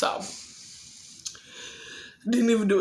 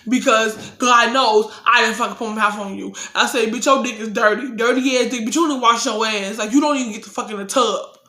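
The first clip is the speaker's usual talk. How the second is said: retold furious telling-off. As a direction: tear into him in full outrage. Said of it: "So I'm like".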